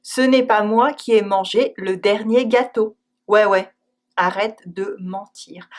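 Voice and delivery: dry disbelief; eye-roll ouais; ironic ouais. Shown as a demonstration. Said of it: "even sometimes a plain no".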